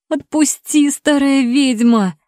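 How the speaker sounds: high pained shout. A narrator's reading. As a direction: yell it out in pain. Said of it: "выкрикнула я".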